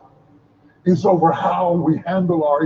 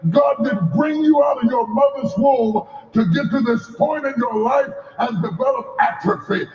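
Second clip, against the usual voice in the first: rising, fervent preacher cadence; preaching at full force; 2 semitones higher than usual. Acted. Preacher rousing the congregation, full force.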